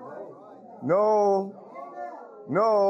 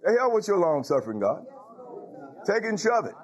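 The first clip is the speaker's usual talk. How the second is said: mock defiant sinner; 2 semitones higher, faster than usual. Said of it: "a creature man talking like that to his maker".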